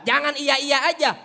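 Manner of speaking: loud sharp scold; wife shouting at her husband; snapping wife. Acted. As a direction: cut him off. Wife snaps.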